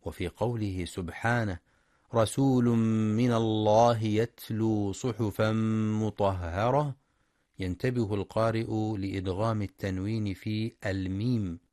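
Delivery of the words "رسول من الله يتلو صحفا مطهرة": measured tajweed chant; Quran recitation. Acted. Teacher reciting the messenger verse to students. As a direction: recite evenly with held vowels.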